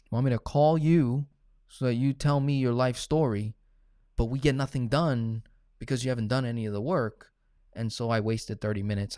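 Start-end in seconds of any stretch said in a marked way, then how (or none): 0.1-7.3 louder, scolding mock reply; exasperated scolding. Coach to a client who did no work, exasperated scolding.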